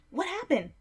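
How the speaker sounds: high, loud startled question; alarmed cry, pitched right up; startled yelp. A narrator's reading. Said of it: "you yelped".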